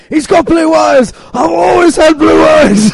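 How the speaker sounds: high, loud, drawn-out character yell; mock panicked shout. Host reenacting the show's joke, hammed-up high shout. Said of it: "where it was like".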